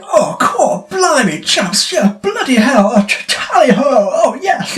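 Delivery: high, hammed-up posh English accent; English accent caricature, high and silly; mock posh English. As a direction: parody an over-the-top English gent. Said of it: "they're so over the top".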